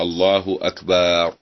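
أكبر with the ba drawn out long, said slowly; stretched ba, slow. Shown as a demonstration. Teacher demos the wrong drawn-out ba. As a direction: drag the ba in الله أكبر. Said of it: "أو يمد الباء".

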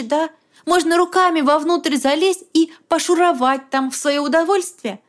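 roaring anger. A narrator's reading. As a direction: rage at her sister. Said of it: "взревела Милка".

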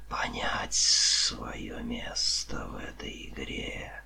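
very slow, sibilant whisper; drawn-out whispered snake voice; gloating serpent. A narrator's reading. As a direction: unspool the tale in a menacing hiss.

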